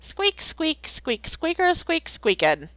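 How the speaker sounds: playful squeaks as a squeaky wheel; squeaky wheel noises. Pretend. Spouse said squeaky wheel, so she squeaks back playfully. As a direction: squeak like a wheel, high then dropping. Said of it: "I will be the squeaky wheel".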